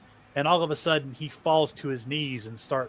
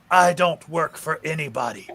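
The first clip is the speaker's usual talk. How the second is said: defiant. Acted. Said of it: "Mark looks at him and says".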